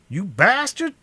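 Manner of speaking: high, loud enraged shriek. Acted. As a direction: spit it out in a shrill fury. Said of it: "the other shrieked".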